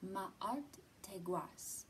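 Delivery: Ma'art Teguas spelled out slowly, syllable by syllable; slow teaching model of Ma'art Teguas. Shown as a demonstration. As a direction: stretch out Ma'art Teguas for the kids. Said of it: "I'll say it a little slower".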